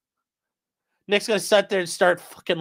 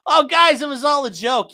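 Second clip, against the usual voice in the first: mock innocent excuse; 6 semitones higher than usual. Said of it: "They're gonna come in and say".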